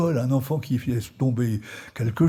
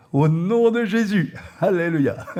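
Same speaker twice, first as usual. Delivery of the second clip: authoritative prayer; 5 semitones higher, 3 dB louder, slower than usual. Retold or imitated. Praying with authority.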